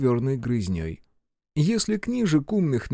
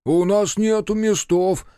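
higher, slow, loud protest; shouted out; 7 semitones higher, 4 dB louder than usual. Acted. Fat marquis shouting from the cart, refusing room. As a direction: yell back in indignant refusal. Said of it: "выкрикнул толстый маркиз".

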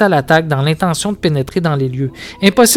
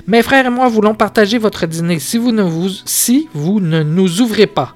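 mild rage; 5 semitones higher than usual. Acted. Werewolf threatening the household, mild rage. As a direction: threaten them, half-hearted rage. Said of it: "comme s'il écumait de rage".

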